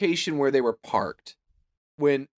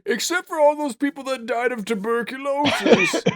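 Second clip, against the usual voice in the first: hyped ad voice; 9 semitones higher than usual. Pretend. Joking high voice.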